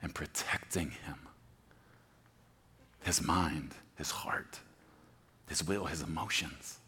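soft unvoiced narration; whispered. Preacher setting up God's whisper, hushed. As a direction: hush the room. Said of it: "whispered narration".

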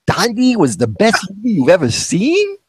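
a high, incredulous question through a laugh; laughing disbelief at the friend. Retold or imitated. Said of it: "my friend's like".

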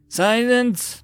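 high, sharp command for silence; hissed order. A narrator's reading. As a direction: cut them off with a hissed order. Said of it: "Lord Terran hissed".

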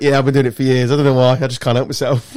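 proud northern Yorkshire twang; Yorkshire accent. Retold or imitated. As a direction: slip into a Yorkshire accent for the bosses. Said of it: "Why do you put a Yorkshire accent on".

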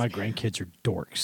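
put-on low, soft grumbling old man; grandpa voice. Voicing grandpa.

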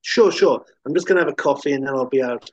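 a lightly voiced cop waving them off; hint of a laid-back cop; casual cop.

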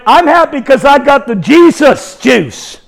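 mild, drawn-out holler; retold happy yell. Preacher telling strangers why he's happy, mildly yelling. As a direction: re-enact calling out gleefully. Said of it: "And I yell at them".

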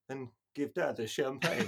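slow, laughing retold Frasier line; a deflated hint of Frasier catching himself; sheepish afterthought. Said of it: "Stops, looks at the bottle and goes".

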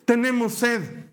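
mock complaining chant; whining people. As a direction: drag it out like a nagging crowd.

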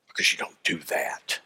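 hushed, under-the-breath reproof; hushed disapproval. Acted. Preacher voicing what women were told, hushed disapproval. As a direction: drop low and soft, nearly whispered.

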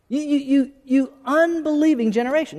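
insistent repeat of Jesus' rebuke. Acted. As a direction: push harder on the repeat, pitch up.

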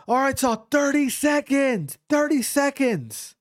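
high-pitched, drawn-out call; imitated coach yell. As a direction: call out the time like a cornerman. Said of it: "I hear my coach yell".

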